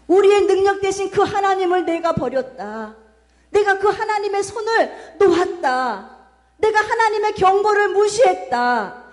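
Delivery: high, emphatic preacher's proclamation; king proclaiming repentance. Acted. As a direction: cry out the confession to the people. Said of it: "백성들에게도 금식을 선포하면서".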